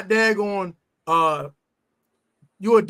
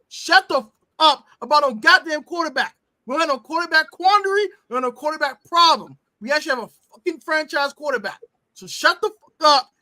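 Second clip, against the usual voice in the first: heated rant. Real, not acted. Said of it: "I'm gonna say this emphatically".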